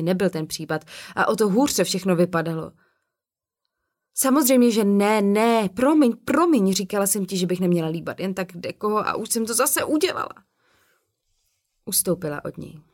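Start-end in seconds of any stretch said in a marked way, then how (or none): 4.1-10.3 flustered apology. Acted. Hazel apologising after rejected kiss.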